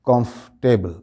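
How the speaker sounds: "comfortable" as KOMF, table; "comfortable" in two measured parts, comf-table; correct pronunciation. Shown as a demonstration. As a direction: say "comfortable" without the "or". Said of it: "बोलते वक्त ये लफ्ज़".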